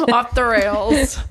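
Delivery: laughing through the words, slowly. Real, not acted. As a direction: giggle out the phrase. Laughing at her own joke.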